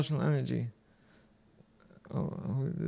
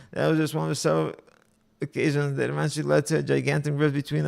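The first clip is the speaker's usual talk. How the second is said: brisk, clearly projected reading of a personal account; story read-aloud; 6 dB louder than usual. A narrator's reading. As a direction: read the story out with steady energy. Reads a posted story aloud.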